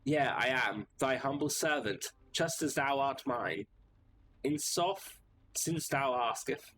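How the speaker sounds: grand mock-medieval knight, speaking slowly; pompous knight. Knight passenger declaiming to the cab driver, grand and pompous. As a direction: puff up and declaim like a noble knight.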